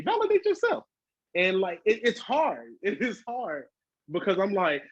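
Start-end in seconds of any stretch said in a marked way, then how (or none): 0.0-0.8 self pep talk. Real, not acted.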